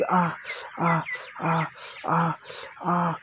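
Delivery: short, evenly spaced imitated cries; narrated cries. A narrator's reading. Narrator imitating the character crying out, brief separate cries. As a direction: act out repeated cries, pausing between each. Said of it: "ती ओरडत होती".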